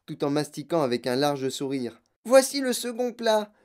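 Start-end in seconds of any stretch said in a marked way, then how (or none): 2.2-3.5 high-pitched, gushing relish; excited raving. Acted. Girl describing roast beef course in gum, excited. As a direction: gush over every mouthful in a high voice.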